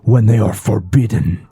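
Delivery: whispering fish creature. Acted.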